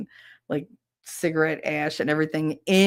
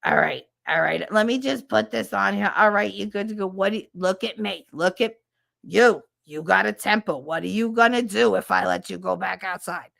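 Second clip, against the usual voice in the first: nurse Pat. Retold or imitated. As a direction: boom out a chain-smoking nurse's fuss. Nurse Pat voiced again.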